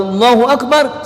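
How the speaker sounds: "Akbar" lifted high like calling the prayer; imam's takbir call. Shown as a demonstration. Preacher mimics the imam calling Allahu Akbar, lifted call. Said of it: "Sholat, Allahu Akbar".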